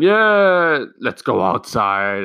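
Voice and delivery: high, loud, drawn-out cheer easing off; mock enthusiastic teacher. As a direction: imitate an over-keen teacher rallying the class. Teacher cheerily announcing, mocked.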